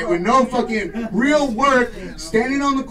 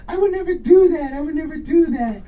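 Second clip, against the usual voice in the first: impression of a singer; 6 semitones higher than usual. Comic playing a singer denying everything, high and pleading. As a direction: plead innocence in a breathy high voice. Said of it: "he's like".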